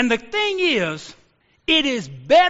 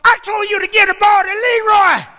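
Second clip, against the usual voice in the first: furious coach bellowing at his quarterback; angry coach shout; 9 semitones higher, 7 dB louder than usual. Retold or imitated. Coach yelling across the field at the quarterback, high loud angry shout. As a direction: yell it high and loud from the sideline. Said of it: "the coach called it".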